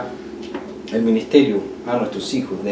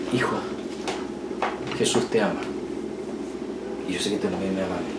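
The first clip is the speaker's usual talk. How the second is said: offhand; 5 semitones lower, 12 dB quieter, faster than usual. Shown as a demonstration. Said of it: "Diferente es decirle".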